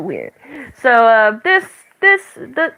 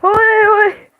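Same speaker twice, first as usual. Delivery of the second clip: yelling sisters; 10 semitones higher than usual. Retold or imitated.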